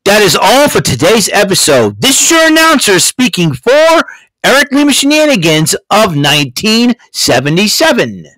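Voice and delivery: lightly voiced announcer closing the episode credits; mock announcer. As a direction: play the show's own announcer reading the outro credits. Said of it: "Mister Announcer, take us home".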